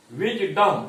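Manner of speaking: "wisdom" with the weight on "dom"; second-part stress. Shown as a demonstration. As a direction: push the end of "wisdom". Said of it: "डम पर अधिक जोर है".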